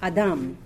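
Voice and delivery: low "Adam", said ah-DAHM; last-syllable stress. Shown as a demonstration. Teacher illustrating the stress rule, "Adam" stressed on the last syllable. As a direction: put the weight on the end of "Adam". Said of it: "the stress is on the second or the last syllable".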